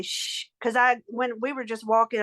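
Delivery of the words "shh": soft hissed "shh"; imitated shush. Woman retelling a ghostly sound by the parlor, shushing. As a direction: imitate an unseen hushing voice. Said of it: "I did hear something say".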